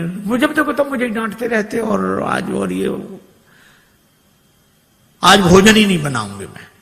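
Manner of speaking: a wife loudly faking a fight; fake angry wife. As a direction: shout so the guest hears. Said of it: "जोर जोर से इन्होंने झगड़ा करना शुरू किया".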